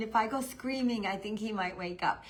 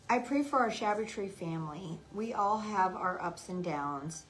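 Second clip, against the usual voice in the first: prayer reading; 3 semitones lower than usual. Real, not acted. Reads a prayer tag aloud.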